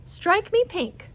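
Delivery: strike me pink. Acted. Mary's catchphrase voiced.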